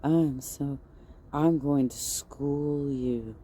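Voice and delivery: soft, slow, smug whispery lecture; mock her condescending ASMR tone. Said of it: "talking your A S M R voice".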